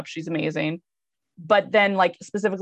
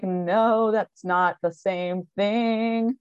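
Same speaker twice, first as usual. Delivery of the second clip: mock correction; 3 semitones higher, much slower than usual. Answering Puck's excuse about the cupcake money, mock correction. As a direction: stretch it out in mock disbelief.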